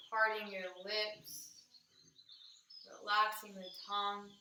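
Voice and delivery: calm, measured meditation guide; even-toned meditation, phrase by unhurried phrase; guided meditation. Acted. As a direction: guide them inward, leaving long pauses between phrases.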